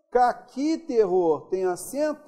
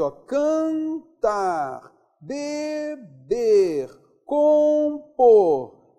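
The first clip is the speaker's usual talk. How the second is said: cantar, beber, compor with each final syllable drawn out and punched louder; stressing the last syllable; 4 semitones higher, 5 dB louder, much slower than usual. Shown as a demonstration. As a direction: drag out and hit the tonic syllable of cantar and compor, teacher style. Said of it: "Veja que eles são palavras oxítonas".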